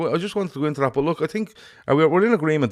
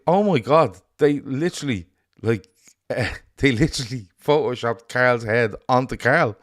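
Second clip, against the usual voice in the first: retold excitement; 3 semitones higher than usual. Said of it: "And I was like".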